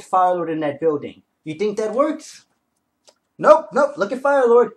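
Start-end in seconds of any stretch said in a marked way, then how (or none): 3.4-4.7 high, loud gleeful nope; showing viewers the villain lived, excited outburst. Real, not acted. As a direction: shout it out, thrilled he survived. Excited reveal while showing comic.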